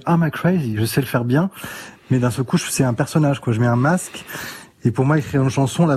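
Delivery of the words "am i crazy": a light American accent on Am I crazy, crazy with an American r. Shown as a demonstration. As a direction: singer demos an English-speaking accent for the host, lightly American. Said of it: "avec l'accent américain ou l'anglais".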